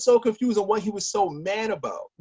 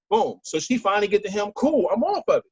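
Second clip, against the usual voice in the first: usual speaking voice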